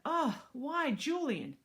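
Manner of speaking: high, loud, drawn-out complaint; disgusted groan. Acted. Boy objecting to Julian, disgusted whine. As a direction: groan it slowly in dismay.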